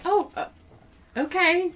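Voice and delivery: high awkward okay. Retold or imitated. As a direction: squeak it out, thrown off. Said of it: "I'm just like".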